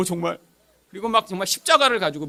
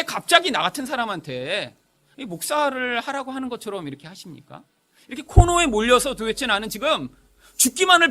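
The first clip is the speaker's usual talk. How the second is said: raised, bewildered plea to God; protesting prayer; 4 semitones higher than usual. Retold or imitated. Young man in a prayer cave asks God why him, protesting plea. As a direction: plead upward, questioning why.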